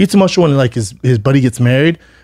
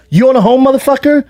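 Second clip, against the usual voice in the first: high-pitched mocking challenge; belittling; 11 semitones higher than usual. Comedian to his trainer mid-argument, belittling. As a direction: imitate someone scornfully putting a friend down. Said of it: "he's belittling him".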